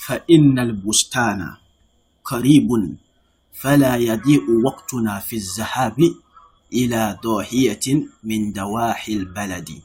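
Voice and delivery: formal recitation voice; reading text aloud. Shown as a demonstration. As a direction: read the passage out clearly for the class. Reads the Arabic source text.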